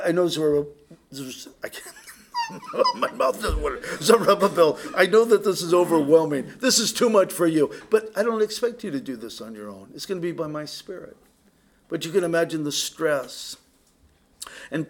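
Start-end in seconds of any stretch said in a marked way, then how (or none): 4.0-11.2 loud, earnest reassurance to an overwhelmed man; God reassuring. Retold or imitated. God reassures Zerubbabel he won't be alone, loud and earnest. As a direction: speak as God comforting, firm and kind.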